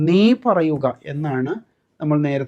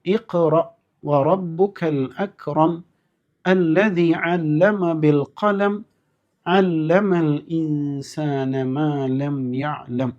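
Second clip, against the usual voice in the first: slow, drawn-out recitation; Quran recitation; much slower than usual. Shown as a demonstration. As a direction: chant the verse slowly. Recites the verse.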